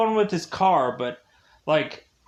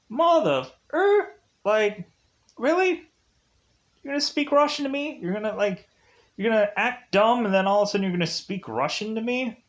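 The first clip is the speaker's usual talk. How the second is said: incredulous and rushed, pitch jumping up on really; mock-outraged, rattling off the complaint fast; a hammed-up John Wick, stunned and indignant; indignant disbelief; 5 semitones higher, faster than usual. John Wick retorts to Russian thug.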